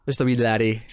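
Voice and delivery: half-hearted Scottish lilt, coming out Irish; mock Scottish accent. Joking about being too young, botched Scottish accent. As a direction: try a Scottish accent, slightly off. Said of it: "That'll sound Scottish. It was, it sounded more".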